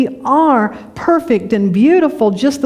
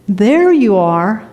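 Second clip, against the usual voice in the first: slow gentle reveal; much slower than usual. Pretend. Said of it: "the universe is again saying".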